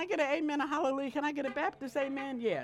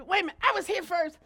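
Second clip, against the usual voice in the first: mild mock indignation; 3 semitones higher, 3 dB louder, faster than usual. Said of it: "somebody cuts in front".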